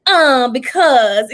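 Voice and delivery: slow, drawn-out mock preaching; lightly hammed-up sermon delivery; imitating child's fake sermon. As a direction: stretch it like a kid playing preacher. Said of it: "did her fake Reverend Bree sermons".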